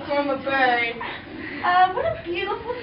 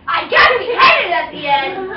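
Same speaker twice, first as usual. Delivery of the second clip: louder hammed-up cry of despair; mock outraged shout; 6 dB louder than usual. Cinderella shouting at the narrator about her ending. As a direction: wail it like a spoiled princess.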